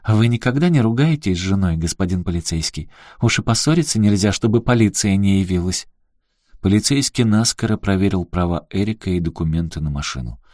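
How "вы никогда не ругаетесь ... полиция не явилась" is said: с улыбкой. Acted. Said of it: "Аляска улыбнулась".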